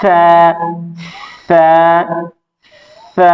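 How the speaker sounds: সা said softly and lightly hissed; soft letter demo. Shown as a demonstration. Teacher drilling the soft সা, gentle and light. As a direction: sound out সা gently. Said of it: "নরম হবে".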